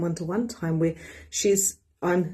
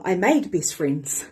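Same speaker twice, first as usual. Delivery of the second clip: ordinary talk, nothing marked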